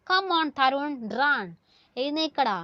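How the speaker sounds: mildly acted cheering-on; mock encouraging yell. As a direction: urge a runner on, without really yelling. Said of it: "എന്താ അദ്ദേഹം അലറി വിളിക്കുന്നേ".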